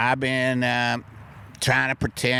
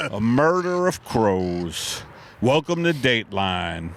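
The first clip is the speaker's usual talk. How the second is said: ominous announcer; 3 semitones lower than usual. Acted. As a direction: intone it like a crime show host. Ominous Dateline-style line.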